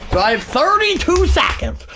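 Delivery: dramatic, stretched-out commentary; play-by-play announcer. Pretend. Streamer setting up his final drive, dramatic announcer delivery. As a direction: build tension for the last drive.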